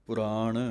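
ਪੁਰਾਣ with a short ਪੁ, two clear syllables; ਪੁਰਾਣ spoken deliberately, the ਪੁ kept short; careful pronunciation. Shown as a demonstration. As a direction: say ਪੁਰਾਣ as ਪੁ-ਰਾਣ, never ਪ੍ਰਾਣ. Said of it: "ਪੱਪੇ ਦੇ ਥੱਲੇ ਇੱਕ ਔਂਕੜ ਹੈ".

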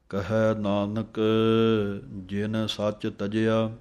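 slow, drawn-out Gurbani reading; scripture recitation. Shown as a demonstration. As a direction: recite it slowly, lengthening each long vowel. (ਠਹਿਰਾ ਨਾਲ ਗੁਰਬਾਣੀ ਪਾਠ)

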